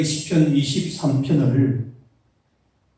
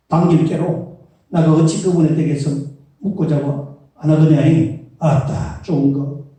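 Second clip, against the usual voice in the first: hammed-up Jeolla accent, a bit higher and louder; Jeolla dialect; 3 semitones higher, 8 dB louder than usual. Pastor amusing the congregation with Psalm 23, Jeolla accent. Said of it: "그 다음에 전라도 버전".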